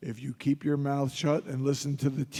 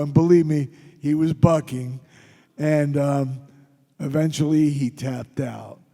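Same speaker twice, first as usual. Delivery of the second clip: excited; 6 dB louder than usual. Real, not acted. Excited wrestling story climax.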